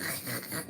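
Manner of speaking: soft, low cat chatter; imitated cat chattering. Showing what the cat did at the window, soft chattering. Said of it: "Starts doing that cat thing".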